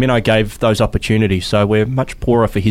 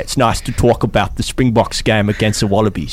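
put-on Dale's South African accent; 2 semitones lower than usual. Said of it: "Dale has a South African accent".

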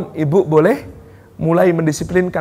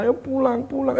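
put-on whiny child; 8 semitones higher, 6 dB quieter than usual. Bored child begging to leave.

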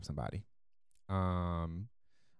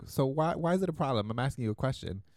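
higher, pressing challenge; retold confrontation; 5 semitones higher, 4 dB louder than usual. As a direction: imitate a friend demanding an answer. Retold quarrel with the worker.

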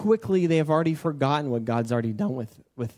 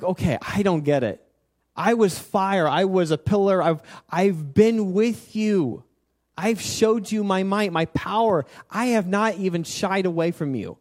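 exasperated complaint; 2 semitones higher than usual. Acted. God reminding forgetful Israel what he showed them, acted exasperation. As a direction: stretch the key words in mild, acted exasperation.

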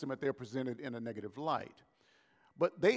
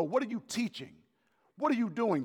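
challenging Pharisees; 7 semitones higher than usual. Retold or imitated.

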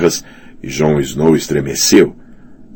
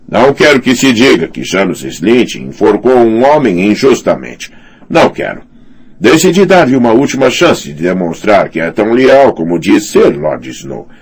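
high, self-important lord's voice; pompous commander voice; 6 semitones higher than usual. Acted. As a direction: puff up like a bullying commander. Janos Slint speaking.

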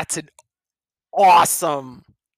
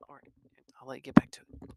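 soft whispered aside; whispering; 8 semitones lower, 8 dB quieter, much faster than usual. Real, not acted. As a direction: hush it back to the reader.

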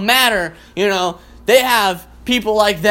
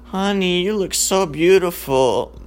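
slow, soft, seductive murmur; mock romantic murmur; 4 dB quieter, slower than usual. Groggy guy murmuring sweetly to his lover. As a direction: lay on the fake romance, slowly. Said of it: "You can't sit there and go".

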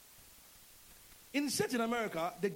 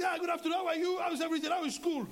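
much higher, louder, bright overeager hello; cheery greeting; 10 semitones higher, 4 dB louder than usual. Retold or imitated. Pastor greeting Sister Cecilia, overeager cheerful high voice. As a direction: gush a friendly welcome.

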